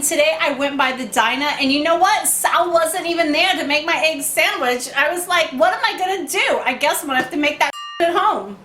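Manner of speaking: cooking for Puddin' in a hammed-up Gotham accent; lightly worn Gotham street accent, playful; put-on Gotham accent. Vlogger cooking breakfast for Sal in a mock Gotham accent. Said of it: "Sorry if I Kevin Costner my accent".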